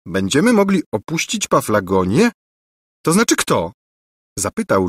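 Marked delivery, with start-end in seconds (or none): 0.1-3.7 uncomprehending, rising question; puzzled question. A narrator's reading. Prince asking who will leave, puzzled. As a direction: repeat it back, not yet understanding. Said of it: "nie mogąc jeszcze pojąć".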